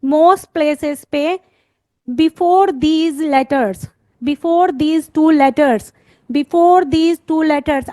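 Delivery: slow, stressed teacher repetition; emphatic classroom drilling; slow repeated emphasis. Shown as a demonstration. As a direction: drill before these two letters slowly, stressing each word. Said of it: "I am repeating it many times".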